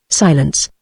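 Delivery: ordinary delivery, nothing marked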